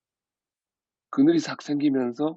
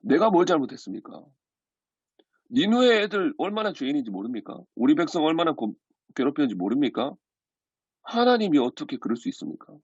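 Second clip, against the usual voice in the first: indignant protest. Retold or imitated. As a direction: act out Jonah arguing back at God. Jonah acted protesting to God. (높은 어조로 따지듯 항의하는 연기)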